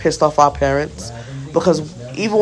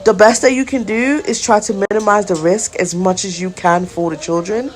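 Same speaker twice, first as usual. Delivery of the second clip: angry retort; 5 semitones higher than usual. Retold or imitated. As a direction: let the frustration push the pitch up as you lecture her. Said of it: "so angry".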